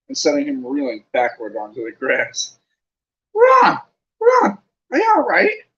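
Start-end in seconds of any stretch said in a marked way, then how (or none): 3.3-5.6 very high, loud frightened squeal. Acted. Hermione squeals to the stricken Ron in high panic. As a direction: shriek in panic for him. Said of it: "squealed Hermione".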